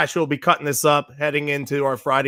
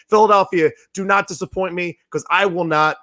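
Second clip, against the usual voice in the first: hoarse, strained from shouting. Real, not acted. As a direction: voice going hoarse. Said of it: "I'm losing my voice right now".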